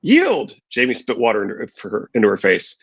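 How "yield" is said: high, forceful battle cry; shouting. A narrator's reading. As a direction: yell the demand down at him. Brienne demands surrender in fight.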